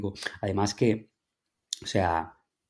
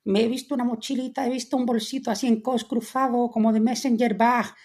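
posh trendy voice; 12 semitones higher than usual. Retold or imitated. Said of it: "es como".

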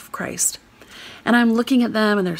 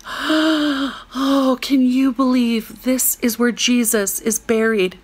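gushing tourist; 4 semitones higher, much slower than usual. Retold or imitated. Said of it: "she says".

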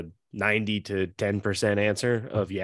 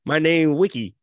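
put-on slow lisping old senator; Mitch McConnell impression; 3 dB louder, slower than usual. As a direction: lips barely moving, slow old drawl. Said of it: "That's his attitude and sounds".

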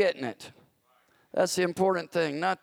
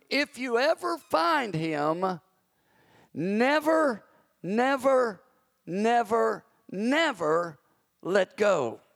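put-on higher, earnest old man pleading never, never, never; old prayer warrior; 7 semitones higher, 3 dB louder, much slower than usual. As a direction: let each never fall heavier, like an ancient voice. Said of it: "said in a broken brogue".

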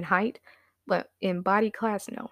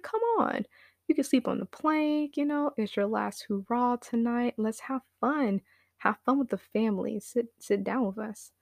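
coaxing dad; 3 semitones higher than usual. Retold or imitated.

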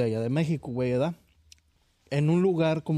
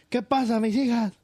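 mother asking her crying daughters, Peje-style; 8 semitones higher, 4 dB louder than usual. Retold or imitated. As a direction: ask it like the president from Tabasco. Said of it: "Ya hablo igual que el peje".

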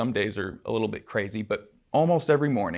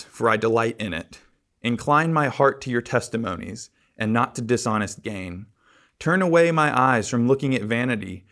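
louder, solemn reading of the psalm; scripture reading; 4 dB louder than usual. Acted. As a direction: proclaim each verse to the congregation. Reads psalm aloud in worship.

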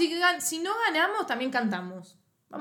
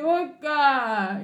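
lightly voiced drawn-out chant call; fan's opening call; 2 semitones higher than usual. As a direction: give a mild call for others to answer. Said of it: "Cuando uno dice". (llamado de hincha, suave imitación)

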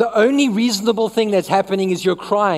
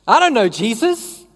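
dismissive denial; 2 semitones higher than usual. Retold or imitated. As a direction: play it cool, shrug off the question. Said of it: "And he says".

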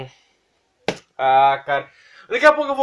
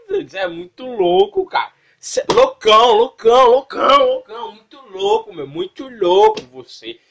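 high-pitched amazement; 7 semitones higher than usual. Real, not acted. Marvels at the clip, voice jumping high.

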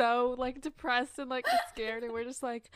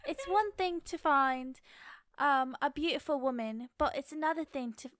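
attempted British accent. Performing a Bridgerton line for co-host, amateur British accent. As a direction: recite it in careful British. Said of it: "just do your accent".

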